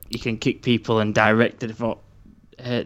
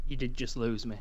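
quiet voice loud hiss; 10 dB quieter than usual. Real, not acted. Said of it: "You're so quiet".

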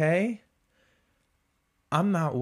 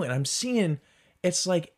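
normal talking voice

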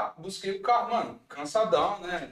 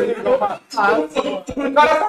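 panicking gamer; 7 semitones higher, 10 dB louder than usual. Pretend. Loud panicked outburst, being followed.

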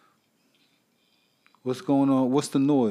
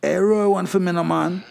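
ghost voice; 3 semitones higher than usual. Acted. Ghost voice heard while dozing.

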